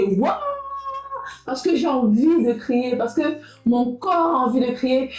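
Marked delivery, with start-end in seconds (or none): 0.0-0.4 demonstrated scream. Shown as a demonstration. Vlogger showing how she suddenly starts screaming, playful scream. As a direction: let out a mock scream, rising. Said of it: "je commence à crier".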